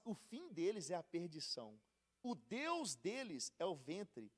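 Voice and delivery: slow, solemn Bible reading; scripture reading. Acted. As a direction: weigh every phrase as scripture. Reads the scripture passage aloud.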